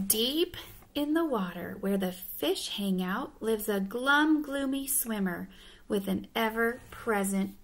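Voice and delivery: measured, rhythmic storybook reading; storybook narrator; picture-book narration. Acted. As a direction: read to children, pausing for the rhyme. Reads picture book aloud.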